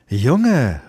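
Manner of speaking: put-on a stern sun calling the boy. A narrator's reading. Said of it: "rief sie".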